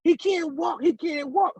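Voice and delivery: high, insistent imitation of cousin; mimicked frantic protest; retold urgent plea. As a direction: call out in protest to police. Cousin pleads with armed police.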